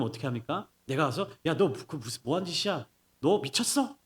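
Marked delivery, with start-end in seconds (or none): 1.4-4.0 mock scolding. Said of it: "막 내가 혼내는 거예요".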